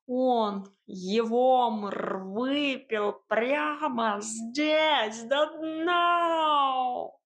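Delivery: медленно, с нарастанием до крика; кот воет, срываясь на крик; кошачий вой. A narrator's reading. Кот в отчаянии кричит. (кошачий голос от растяжки до крика)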